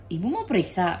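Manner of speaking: mild retold surprise; dokter kaget. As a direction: lightly imitate a taken-aback doctor asking. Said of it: "dokter kaget". (agak kaget, menirukan dokter)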